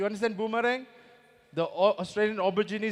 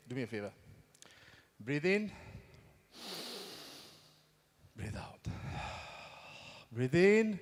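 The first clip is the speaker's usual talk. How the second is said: calm breathing guidance; 4 semitones lower, 5 dB quieter than usual. Retold or imitated. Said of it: "I said".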